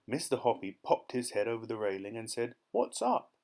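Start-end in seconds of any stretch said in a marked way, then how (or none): 2.7-3.3 calling down. A narrator's reading. Calling down over the railing.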